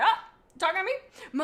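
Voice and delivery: high, airy who-me voice; Ivypool, suddenly in the story, acts surprised to be addressed. Retold or imitated.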